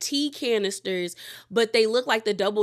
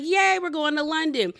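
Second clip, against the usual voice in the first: excited cheer; 6 semitones higher than usual. Retold or imitated. Everyone cheers the London trip.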